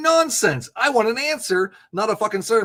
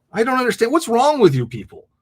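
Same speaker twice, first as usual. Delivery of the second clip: louder, exasperated ranting; fed up with callers, ranting louder; frustrated rant; 3 semitones higher, 6 dB louder than usual. Real, not acted. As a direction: vent at the whole audience.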